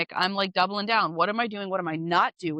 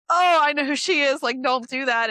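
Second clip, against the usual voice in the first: mock confident retort; 5 semitones higher, 6 dB louder than usual. Retorting when set against a rival agent.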